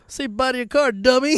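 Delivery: retold taunt, pumped up with glee; hammed taunt. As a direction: really rub it in. Repeating the taunt, bigger.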